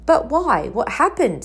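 two quick anxious questions; urgent. A narrator's reading. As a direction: press for an answer at once. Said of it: "said Harry urgently".

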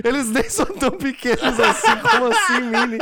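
mock crying. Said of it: "um cara do outro lado chorando".

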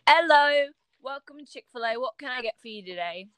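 put-on British greeting; British accent. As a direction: imitate a British shop worker. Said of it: "I had to stop talking in the accent".

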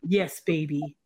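put-on low boy-band spoken sign-off; Kev. Kev promising love to baby, low spoken-interlude voice. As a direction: play a low-voiced crooner talking to baby. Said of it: "my name is Kev".

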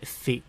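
フィ said as the English TH sound, tongue to teeth; the non-Japanese TH consonant in フィ. Shown as a demonstration. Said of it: "ティーエイチの発音だよね".

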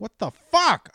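high, loud shout with a blast on the swear; angry outburst. Retold or imitated. Driver mad about a new rash, exasperated yell. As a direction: explode in exasperation. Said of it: "I just start getting mad".

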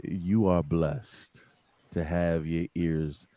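deep sultry intro, slowed way down; breathy vintage purr. Acted. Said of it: "I gotta get deep into the microphone".

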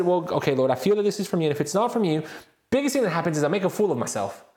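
talking yourself into it before God; urgent prayer. Retold or imitated. On the train, begging God for courage, excited and urgent.

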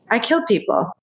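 hint at a whispering creep's voice; creepy whispered quote. Retold or imitated. Retelling the neighbor guy's answer, lightly imitated creepy whisperer. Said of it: "I know he was whispering it too".

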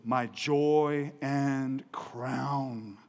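drawn out very slowly; preacher lingering over the phrase, very slowly. Real, not acted. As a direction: savor every word, slowly.

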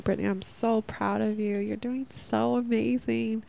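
lightly voiced cheerleader tone, slowing on amazing; self-encouraging letter. Podcaster quoting her letter to herself, gently encouraging. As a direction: read her own self-love letter with gentle pride. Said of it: "I'm like".

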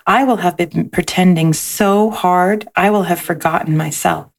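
gentle storybook read-aloud; lilting picture-book narration; reading to children. A narrator's reading.

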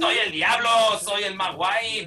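put-on bragging devil in a Mexican accent, stretched out at the end. The cool devil boasts in a Mexican accent. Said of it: "¿Por qué habla mexicano".

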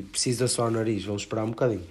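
talking with a blocked nose; stuffy nose before blowing it. Real, not acted. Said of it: "Tive que assoar o nariz". (nariz entupido)

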